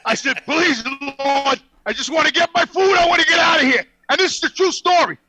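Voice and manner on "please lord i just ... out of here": mock prayer.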